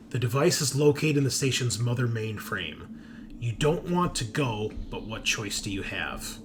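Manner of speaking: deliberate second-person story reading with pauses; dramatic read-aloud. Acted. Game master revealing a spy's secret agenda, dramatic read-aloud. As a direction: narrate a character briefing.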